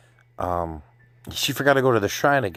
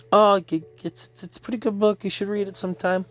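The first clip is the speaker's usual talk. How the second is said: much higher, stammering at the start; flustered girl; 12 semitones higher than usual. Retold or imitated. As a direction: play her flustered, pitched way up. Acting her awkward book small talk.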